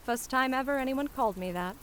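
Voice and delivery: lightly voiced flower girl musing to herself; a hint of Cockney self-reproach softening into fondness; Cockney flower seller, touched. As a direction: chide yourself, then admit you were moved.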